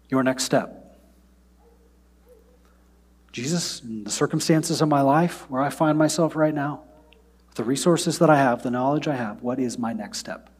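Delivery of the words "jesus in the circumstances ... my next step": prayer. Acted. Models a personal prayer.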